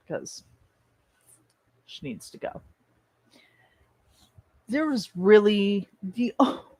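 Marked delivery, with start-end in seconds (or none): 0.1-2.6 whispered. Real, not acted. Aside about killing off Kagome.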